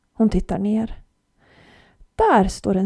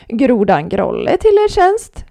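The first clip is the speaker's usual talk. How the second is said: slow, louder, grand frog introduction; croaking frog; 6 dB louder, slower than usual. A narrator's reading. Frog presents himself to Olivia, slow and croaky. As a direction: croak out a pompous greeting. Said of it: "kvackar grodan".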